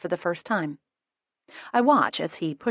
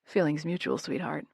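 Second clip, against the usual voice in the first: chastising; 2 semitones lower, 4 dB quieter than usual. A narrator's reading. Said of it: "he chastises".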